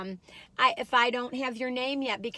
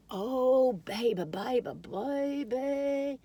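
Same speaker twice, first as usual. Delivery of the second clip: cooing; 3 semitones higher, much slower than usual. Pretend. Cooing to the cookie.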